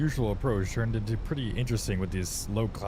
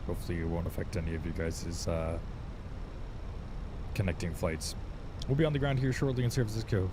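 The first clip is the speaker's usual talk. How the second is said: calm captain's cabin announcement; pilot over the radio; faster than usual. Acted. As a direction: address the passengers like an airline captain.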